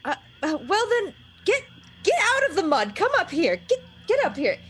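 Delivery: lightly voiced flustered witch. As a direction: urge her up out of the mud. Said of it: "she's like".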